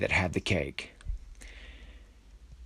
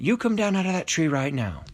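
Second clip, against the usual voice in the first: high, raised-voice command; insistent, higher-pitched demand; stern order; 9 semitones higher, 4 dB louder than usual. A narrator's reading. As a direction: order them down like a fed-up parent. Astro orders the cake down.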